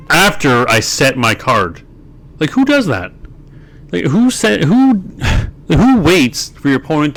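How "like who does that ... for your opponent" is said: exasperated disbelief. Real, not acted. Ranting at opponent's misplay.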